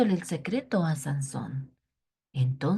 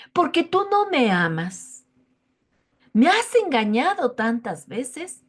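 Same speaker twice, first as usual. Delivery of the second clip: tearful reproach; 5 semitones higher, 5 dB louder than usual. A narrator's reading. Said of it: "empieza a llorar".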